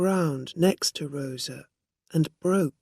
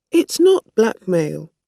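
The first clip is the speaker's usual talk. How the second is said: quickly; 4 semitones higher, 10 dB louder than usual. A narrator's reading. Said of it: "said Rosa quickly".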